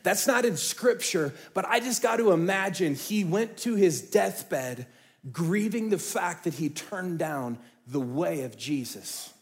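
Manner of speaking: normal talking voice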